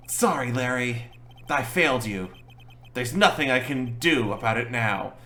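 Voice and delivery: defeated lawyer. Acted. Lawyer apologising to his client Larry, mildly defeated. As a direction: give up with a touch of sadness.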